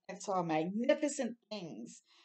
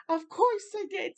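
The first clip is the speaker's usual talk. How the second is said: proud; 11 semitones higher, 4 dB louder than usual. Acted. Proud reply after success.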